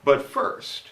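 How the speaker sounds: lightly mocked TV news teaser, pitch lifting as it goes; a hint of newsreader hyping the next story. Comic retelling a school-era newscast to an audience, mock news teaser. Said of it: "began with a teaser".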